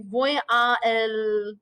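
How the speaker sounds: slow, with a gap between a and el; voy a el said slowly, a and el kept apart; awkward break. Shown as a demonstration. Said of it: "that awkward break between a and l".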